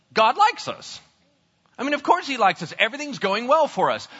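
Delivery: high, pleased declaration; acted upbeat self-assurance; happy confidence. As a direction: say it delighted with your good fortune. Acted men happily assume God's favour.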